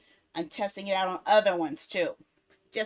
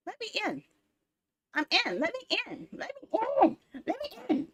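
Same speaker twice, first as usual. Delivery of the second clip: high whiny let me in, over and over; whiny pleading; 11 semitones higher than usual. Real, not acted. Streamer begging Instagram to let her log in, high and whiny.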